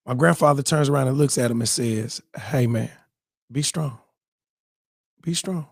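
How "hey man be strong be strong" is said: soft, steadying words; quiet, unhurried reassurance; calm encouragement. Retold or imitated. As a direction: imitate a composed elder consoling someone. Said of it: "my grandfather has been cool as ice".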